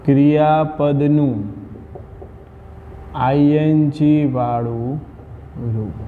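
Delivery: word by word, long pauses between pieces; slow dictation. Shown as a demonstration. Teacher dictates grammar rule to class, slow dictation. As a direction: dictate slowly, leaving time to write.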